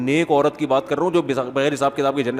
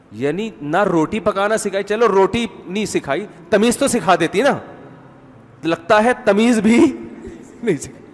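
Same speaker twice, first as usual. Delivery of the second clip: lightly acted escalating reproach; taunting mother-in-law; 3 semitones higher than usual. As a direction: pile on the sarcastic reproach. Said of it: "ساس پھر جواب میں کہے گی".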